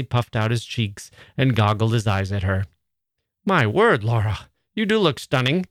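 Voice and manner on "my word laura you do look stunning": mock society gush. Laurie mimics a society voice.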